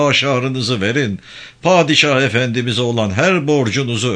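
lightly voiced toadying preacher; fawning imam. Imam lectures villagers to please the chief, mildly fawning.

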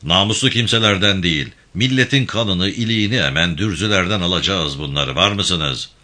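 a firm, lightly voiced gang chief giving orders; steady commanding tone, barely apart from the narration; commanding leader. İbrahim Bey continues.

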